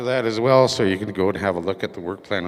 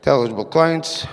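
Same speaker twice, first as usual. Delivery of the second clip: auctioneer; 3 semitones higher than usual. Pretend. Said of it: "talk like an auctioneer".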